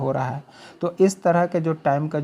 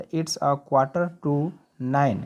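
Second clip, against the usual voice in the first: slow model sentence; much slower than usual. Shown as a demonstration. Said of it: "teacher models English time".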